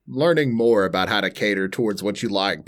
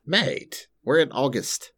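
high-pitched disbelief; shocked at how fast time goes; surprised; 5 semitones higher, slower than usual. Real, not acted. Shocked it's already August.

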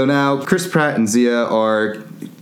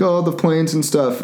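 higher-pitched, lightly panicky whine; mock freaking out; 6 semitones higher than usual. Franklin fretting about the planes, mock freaking out. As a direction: fret in a raised mock-nervous voice. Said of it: "Franklin's still freaking out".

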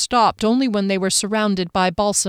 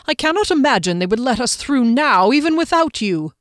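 worried; 5 semitones higher, 4 dB louder than usual. A narrator's reading. Frederick worried.

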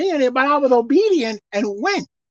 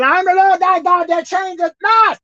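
voice of God; 5 semitones higher than usual. Acted. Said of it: "'Cause he said".

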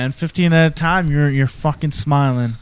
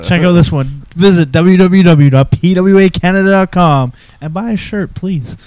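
louder, higher announcer-style plug; promo plug; 4 semitones higher, 6 dB louder than usual. Pretend. Host plugging the podcast shirts, loud promo voice. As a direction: belt out a website ad read. Performs sample plug for clip.

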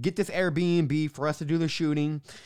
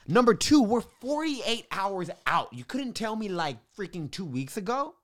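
higher-pitched, exasperated retold rant; pissed off; 6 semitones higher than usual. Founder to the teacher who quit late, pissed off. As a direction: re-enact an indignant complaint, voice climbing. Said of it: "super pissed off".

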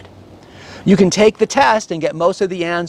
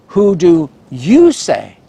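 slow, weighty question; Jesus asking; 3 dB louder, slower than usual. Acted. Jesus asking his disciples, slow and searching. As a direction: let the question hang over them. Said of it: "Jesus says".

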